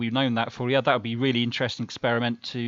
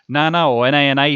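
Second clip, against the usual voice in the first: excited thanks; 3 semitones higher, 11 dB louder than usual. Real, not acted. Thanking a Super Chat donor.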